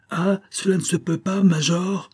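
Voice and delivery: put-on the boy crying out at the major, very high; high trembling cry. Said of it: "de sa voix tremblante et aiguë".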